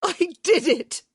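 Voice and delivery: high, loud triumphant bellow. A narrator's reading. Hyacinth bellowing her triumph over the found jewels. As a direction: roar out the victory. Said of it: "And then she bellowed it".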